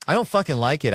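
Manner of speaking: mock fury at sweaty eaters; angry. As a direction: spit it out furious. Angry repeated complaint.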